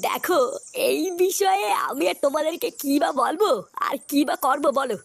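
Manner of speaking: low, unhurried village elder; lightly voiced old headman. Headman lazily refuses to help the club members. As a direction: brush them off like a tired old headman.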